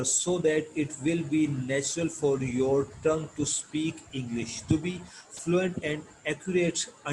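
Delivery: slow, deliberate textbook read-aloud. Acted. Teacher reading English lesson text to students, slow measured reading. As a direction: read it out slowly, phrase by phrase.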